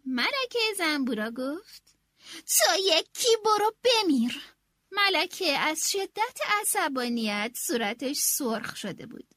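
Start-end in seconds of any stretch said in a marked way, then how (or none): 2.5-4.4 louder, slow, furious; angry outburst. Acted. Queen snapping angrily at the cook. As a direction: spit it at the cook.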